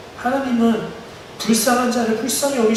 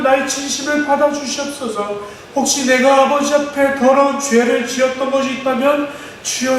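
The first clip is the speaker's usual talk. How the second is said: building fervent prayer; 2 semitones higher than usual. Acted. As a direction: start hushed, then climb into desperate petition. (점점 고조되는 간절한 기도)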